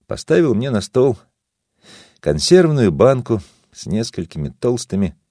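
usual speaking voice

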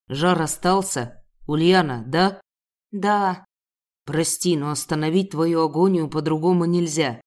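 низкий мужской голос, медленно и бережно; говори низко и мягко, с заботой; тихий мужской голос. A narrator's reading. Правитель говорит с героиней. (правитель бережно спрашивает героиню низким голосом)

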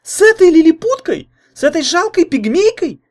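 put-on very high, loud outraged girl; boiling over. A narrator's reading. Jealous girlfriend explodes at the comparison, very high and furious. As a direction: erupt in fury, shrill and loud. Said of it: "вскипела Лайда".

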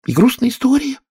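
high little mouse voice, sighing; a sad mouse sighs out her tale; squeaky mouse with a sigh. A narrator's reading. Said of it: "начала мышь со вздохом".

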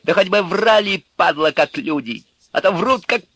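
high, loud furious bellow; roaring thug. A narrator's reading. Urka threatening the electrician and nervous man, roaring. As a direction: roar at both of them. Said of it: "взревел вдруг Урка".

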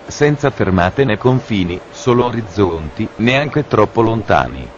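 calm PA announcement voice; station announcer. Acted. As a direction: read it like a train station tannoy. Parody train station announcements.

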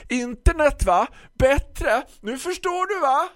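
high, loud shout after someone leaving; calling after. Acted. Florist calls loudly after the departing customer. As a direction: call across the shop. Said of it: "ropade Tisten efter mig".

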